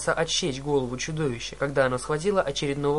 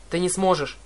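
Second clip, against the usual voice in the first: shouting back; 3 semitones higher than usual. Acted. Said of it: "крикнула она в ответ".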